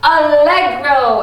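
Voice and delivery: "Allegro" slow and loud, stress on "le"; drawn-out allegro. Shown as a demonstration. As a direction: model "Allegro" for the class. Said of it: "say allegro".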